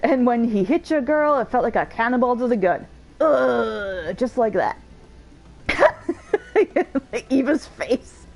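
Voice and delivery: lightly voiced bragging veteran; boastful old warrior. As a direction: swagger through the tale of glory, hammed-up a bit. Voices boastful hero Tractome.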